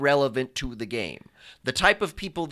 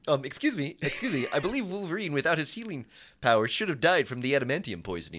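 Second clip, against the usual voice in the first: comic book guy voice; 4 dB quieter, faster than usual. Retold or imitated. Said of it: "first time that you broke that out".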